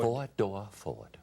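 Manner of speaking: slow Southern drawl; Southern accent. Shown as a demonstration. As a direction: draw the vowels out in a Southern accent. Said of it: "How do you do a Southern accent?".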